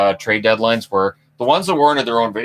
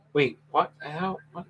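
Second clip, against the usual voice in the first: surprised; 7 semitones higher, 9 dB quieter than usual. Real, not acted. Surprised at a misspelled name.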